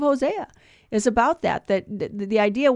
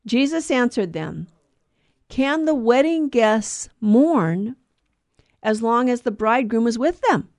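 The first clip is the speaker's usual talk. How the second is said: gospel reading. Acted. Reads the day's gospel aloud.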